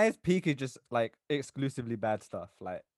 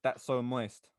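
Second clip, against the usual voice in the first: flat, emotionless delivery; no emotion; 4 dB quieter, much slower than usual. Shown as a demonstration. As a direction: say it deadpan, giving nothing away. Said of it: "try to say it with no emotion".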